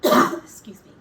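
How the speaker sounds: loud, rough wolf voice; gruff wolf. Acted. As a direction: bark it out gruffly. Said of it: "said the babysitter".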